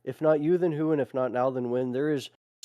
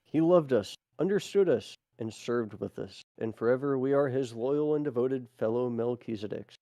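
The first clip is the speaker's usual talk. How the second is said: measured, solemn reading of a record; deliberate phrasing with short pauses; formal read-aloud. Acted. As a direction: read it out like an official proclamation. Reads a text aloud.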